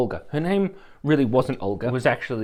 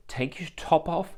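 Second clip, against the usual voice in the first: lightly attempted Polish accent, slow; her Polish accent; 3 semitones higher, 5 dB quieter than usual. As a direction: imitate a Polish masseuse's accent, drawn out. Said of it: "in her accent".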